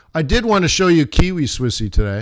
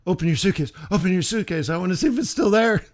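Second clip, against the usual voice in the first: excited; 5 semitones higher, faster than usual. Retold or imitated. Excitedly urging wife to open suitcase.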